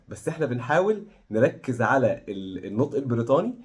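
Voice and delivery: usual speaking voice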